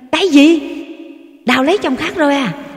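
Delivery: high, loud, fast cry of shock; shouting in shock. A narrator's reading. Husband learns his wife remarried, shocked shout. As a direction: shout it out, stunned. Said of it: "Phan hét lên".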